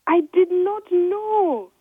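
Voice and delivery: high, loud, slow anguished cry; shouting. Acted. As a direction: shout it out in dismay, slowly. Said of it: "she shouted".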